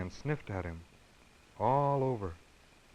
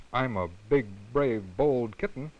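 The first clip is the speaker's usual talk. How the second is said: boastful; 4 dB louder than usual. Acted. Kitten boasting to mother.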